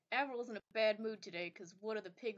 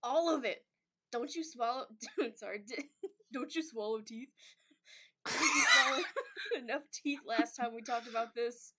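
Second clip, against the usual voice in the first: gruff henchman voice; 3 dB louder than usual. Acted. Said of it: "You want me to be them too".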